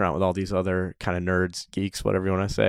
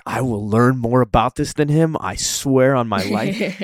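determined angry vow; 3 semitones higher, slower than usual. Retold or imitated. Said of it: "I was so mad".

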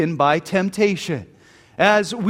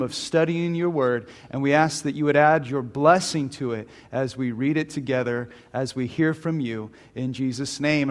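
earnest, lower-pitched congregational prayer; 5 semitones lower than usual. Real, not acted. Pastor asking God to bless the men's study, prayerful. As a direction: lead the men in prayer, settled and reverent.

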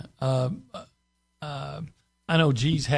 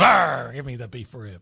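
pirate voice; 4 dB louder than usual. Retold or imitated. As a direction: play a growling pirate demanding food. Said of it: "Like a pirate, almost".

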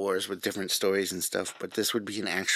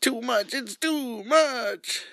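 high-pitched mock outrage; 12 semitones higher, slower than usual. Mocking outfit, very high.

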